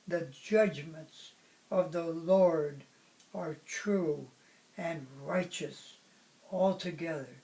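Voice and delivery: measured, declamatory reading with pauses between phrases; poem recitation. Acted. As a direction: read it out like a solemn public poem, phrase by phrase. Reads own poem aloud.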